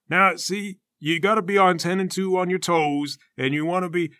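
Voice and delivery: lightly voiced patient trainer; patient coach. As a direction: explain it patiently, pitched a bit up. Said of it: "trying really patiently to explain".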